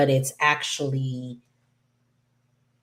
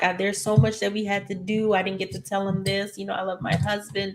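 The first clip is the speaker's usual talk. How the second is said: imitating crying; 6 semitones higher than usual. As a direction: retell her sobbing grief lightly, pitched up. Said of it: "So she's crying".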